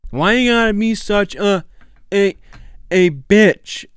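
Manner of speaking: put-on high, loud whiny teen whine; Walter Junior impression. Host repeating the accent challenge line after the video, high whiny teen voice. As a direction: whine it like a bratty teenager. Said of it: "He does it so good".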